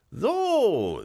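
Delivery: high, loud imp squeak; little devil voice. A narrator's reading. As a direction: pipe it like a tiny devil. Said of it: "sagte das Teufelchen".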